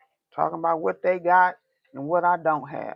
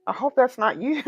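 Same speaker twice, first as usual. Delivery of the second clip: laughing; 6 semitones higher than usual. Real, not acted. Laugh heard on line.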